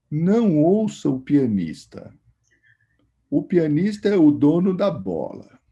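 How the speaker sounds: a hint of a wise old musician speaking in metaphors; imitating Laércio's intonation. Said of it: "Ele falou assim, desse jeito, assim, com essa entonação".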